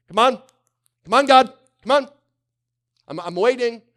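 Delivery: high, loud whining come on; impatient plea. Retold or imitated. Impatient believer begging God to hurry, high whiny. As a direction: badger God impatiently, pitch up.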